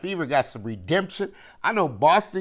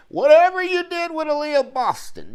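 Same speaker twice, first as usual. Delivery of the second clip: much higher and louder, bursting with hype; raised, high-pitched praise for Boston; excited outburst; 13 semitones higher, 6 dB louder than usual. Real, not acted. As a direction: shout it like you can't believe her form. Hyping a player's great form.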